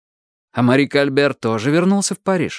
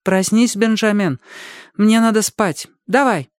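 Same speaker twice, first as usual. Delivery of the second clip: urgent wake-up call; 9 semitones higher than usual. Acted. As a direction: rouse a sleeper, pushy. Shaking him awake, urgent.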